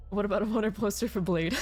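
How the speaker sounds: laughing. Real, not acted. Laughing while reading the thought.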